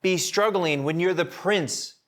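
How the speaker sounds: butter up the prince, pitch lifted; sweet-talking the sulking prince; flattering schemer. Retold or imitated. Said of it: "It's like saying".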